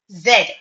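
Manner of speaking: "Z" said as zed; short e and final d in "Z"; British pronunciation. Shown as a demonstration. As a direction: say "Z" to rhyme with bed. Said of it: "Z is the right pronunciation".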